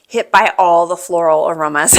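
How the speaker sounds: excited. Real, not acted. Overwhelmed by the wine's smell.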